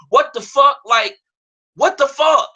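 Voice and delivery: high, loud outraged disbelief; steamed up. Retold or imitated. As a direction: burst out in indignant disbelief. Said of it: "I was so steamed up about it".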